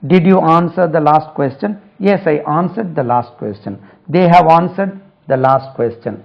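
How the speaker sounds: very slow, each word spaced out; teacher dictating English slowly to students; slow model sentence. Shown as a demonstration. Teacher reading an example sentence aloud, very slowly. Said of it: "slow model sentences".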